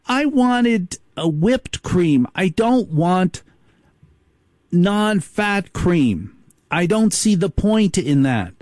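lightly voiced queen, slow and drawn out; a spoiled queen insisting; demanding queen bee. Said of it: "then the queen says".

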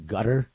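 "gutter" with a hard G for Qatar; "gutter" as GUT-er, tentatively rising; local Arabic pronunciation. Retold or imitated. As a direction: stress the first syllable of "gutter". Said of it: "they kinda say".

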